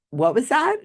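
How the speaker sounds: high-pitched questioning quote; imitated psychic. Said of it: "And she goes".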